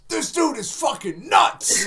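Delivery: laughing mock shout, high and loud; mock message read out. Friend reading his texts aloud, laughing mock shout. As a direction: shout it like a shocked text. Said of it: "I get a message at two o'clock like".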